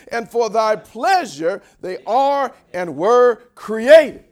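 loud, slow, declaimed scripture; full-force preaching. Real, not acted. Preacher leading the congregation in verse eleven, booming proclamation. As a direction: proclaim each phrase like a rallying cry.

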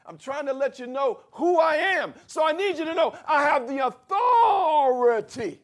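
loud preacher voicing Jesus; Jesus declaring his authority, shouted; preaching at full force. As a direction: proclaim it like a pulpit climax.

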